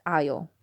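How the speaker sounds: "oil" said with an "eye" vowel, like "eye-ul"; others' pronunciation. Shown as a demonstration. Speaker quoting outsiders' way of saying "oil", mispronounced as "eye-ul". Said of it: "I've heard them pronounce it".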